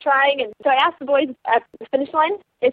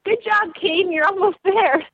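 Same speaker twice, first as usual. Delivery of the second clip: raised pitch, cheery encouraging call; cheering on a musher; 7 semitones higher than usual. Retold or imitated. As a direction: shout encouragement to a racer. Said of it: "I hear".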